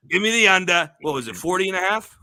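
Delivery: high-pitched mock-British demand; British accent. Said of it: "give a pick out in a British accent".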